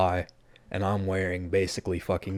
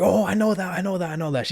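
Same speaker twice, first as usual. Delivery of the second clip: much higher, bubbly mock voice; excited girl imitation; 10 semitones higher, 3 dB louder than usual. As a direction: imitate her delight at a name she knows. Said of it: "She's getting real fucking excited".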